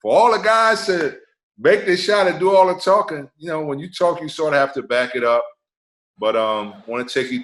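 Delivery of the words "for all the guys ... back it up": higher, louder mock commentator voice; a mock-preachy broadcaster lecturing players; imitating Walton. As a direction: ham up a TV analyst scolding. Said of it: "and Bill Walton said".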